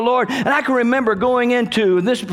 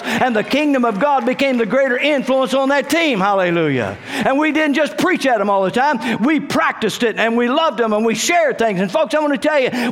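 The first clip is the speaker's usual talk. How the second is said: higher, driving sermon delivery; fervent preaching; 4 semitones higher than usual. Real, not acted. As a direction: build the sermon toward a climax. Preaches with building force.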